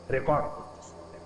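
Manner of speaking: hushed, breathy whisper; whispered answer. Acted. Preacher revealing to listeners that angels record, whispered. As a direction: drop to a secret whisper.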